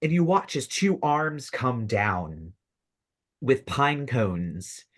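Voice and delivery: suspenseful scene-setting, drawing out key phrases; game master narration. Acted. Game master reveals a living tree to players, suspenseful narration. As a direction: build the monster's reveal piece by piece.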